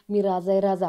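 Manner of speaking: loud, self-important declaration; boastful. A narrator's reading. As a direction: brag it out loudly. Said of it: "काही बाता मारायला सुरुवात करतात".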